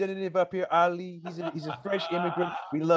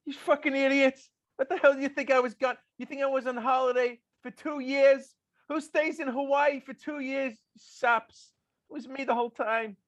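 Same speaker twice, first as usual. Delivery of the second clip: mock outburst; 8 semitones higher than usual. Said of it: "He's like".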